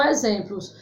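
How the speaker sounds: usual speaking voice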